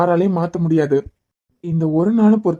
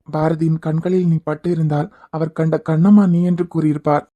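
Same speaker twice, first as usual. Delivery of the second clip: poem recital. Acted. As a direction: recite each image with pride.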